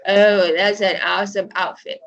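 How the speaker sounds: ironic compliment that means the opposite; teasing sarcasm about a bad outfit; sarcastic mocking. Shown as a demonstration. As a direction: say it sarcastically to mock them. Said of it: "so you are mocking that person".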